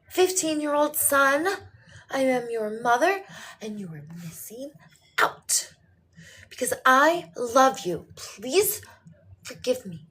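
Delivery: mock mother's yell, punching out words; retold screaming back. Mother screaming back at her teenage son, theatrical yelling. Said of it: "So I was just screaming back".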